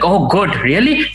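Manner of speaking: sudden high-pitched eager surprise; mock grocer, gleeful and high; eager delight. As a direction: jump up in pitch, greedy and thrilled. Lusty grocer delighted by offer.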